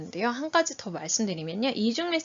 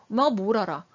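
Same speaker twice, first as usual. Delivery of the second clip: acted child challenging mom; mildly scornful, a little louder; confrontational retort; 4 dB louder than usual. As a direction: throw it accusingly at mom. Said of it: "막 달겨들듯이 얘기한다고".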